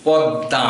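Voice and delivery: পদ্মা said poddã, doubled d and nasal; পদ্মা with a held d, no m sound; correct pronunciation. Shown as a demonstration. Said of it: "উচ্চারণটি হবে".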